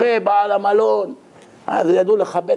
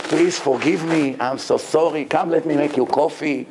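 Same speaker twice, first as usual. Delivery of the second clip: trembling plea; 3 semitones lower, much slower than usual. Retold or imitated. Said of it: "רררר, התחיל לרעוד".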